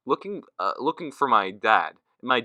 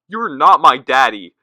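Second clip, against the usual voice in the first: put-on toddler yelling; 3 semitones higher, 8 dB louder, slower than usual. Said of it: "she yells out loud".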